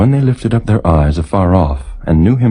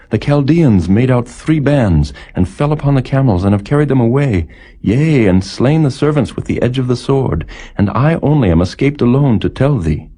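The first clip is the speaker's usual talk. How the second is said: lightly raised messenger voice, urgent; a hint of a breathless servant bearing bad news; messenger's report; 6 semitones higher than usual. Servant tells Job the fire of God fell, lightly raised urgent voice.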